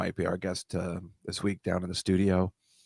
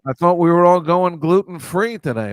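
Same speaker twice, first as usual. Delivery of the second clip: annoying bunny rabbit, higher and louder; lightly voiced Damone impression; Damone from Fast Times voice; 6 semitones higher, 7 dB louder than usual. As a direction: play the smug cartoon bunny. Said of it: "he talks like Damone from Fast Times".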